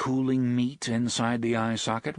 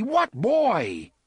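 loud, high cry of desperation; panicked yell, pitched way up; frantic yell; 12 semitones higher, 6 dB louder than usual. A narrator's reading. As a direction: shout it frantically. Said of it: "Eddie yelled frantically".

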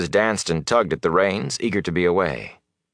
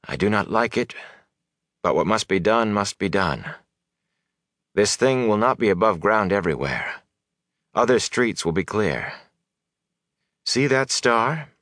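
a hint of a commanding wise woman; understated grave resolve, carefully measured; lightly voiced resolute sorceress; 4 semitones higher than usual. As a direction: lay out the plan firmly, lightly in character. Voices Moiraine giving instructions.

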